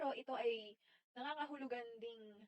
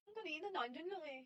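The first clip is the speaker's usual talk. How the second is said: Bulacan lilt, pitched up a little; Bulacan accent; 4 semitones higher than usual. Shown as a demonstration. Repeating a sample for viewers, lilting Bulacan accent. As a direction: show off the Bulacan punto. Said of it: "accent or punto. Here in Bulacan".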